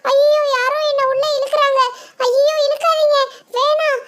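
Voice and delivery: high, panicked pleading for help; frightened pleading. Acted. Mini being dragged into the bungalow, begging Reni, panicked. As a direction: beg them to let go, terrified.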